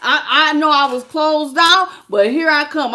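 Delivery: high, loud, laughing through words. Real, not acted. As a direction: talk while still cracking up. Laughing while mocking ex.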